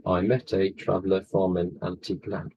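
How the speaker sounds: "I met a traveller from an antique land" in measured, low iambic beats; metered, counted-out line. Shown as a demonstration. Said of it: "If I just get my fingers up here".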